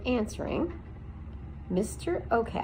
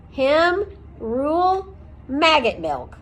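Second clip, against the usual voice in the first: scoffing; 6 semitones higher, 6 dB louder, slower than usual. A narrator's reading. Aerith scoffs at Okax.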